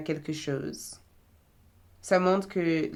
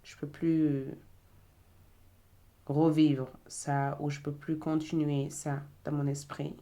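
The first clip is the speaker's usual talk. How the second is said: desperate plea. Retold or imitated. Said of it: "crier à l'aide en disant".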